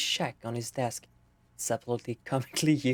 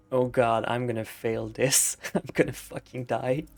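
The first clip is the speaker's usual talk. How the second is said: panicked thought. Retold or imitated. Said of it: "as a thought to himself".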